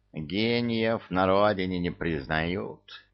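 slow, offended huff; snooty bored cat. Acted. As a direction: sniff it out like a wounded genius cat. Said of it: "обиженно фыркнул кот".

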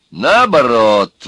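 loud, very drawn-out contradiction; exclaiming. A narrator's reading. Urka contradicts the arguers, exclaiming. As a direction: exclaim it, stretching the word. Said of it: "воскликнул урка".

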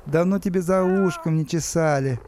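put-on baby talk. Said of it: "сюсюкал Стас".

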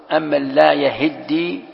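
yahiddi with a doubled, held dal in يهدي. Shown as a demonstration. Teacher showing students the author's reading, doubled d in يهدي. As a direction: draw out يهدي slowly, leaning on the geminated d. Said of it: "بتشديد الدال".

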